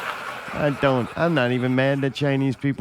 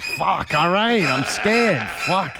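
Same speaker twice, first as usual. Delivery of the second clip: mock scared; 7 semitones higher, 4 dB louder, much slower than usual. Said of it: "It's like".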